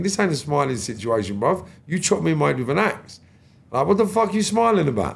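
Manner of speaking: mock outrage at the smiling attacker; thinking to himself. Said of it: "in my head, I'm thinking".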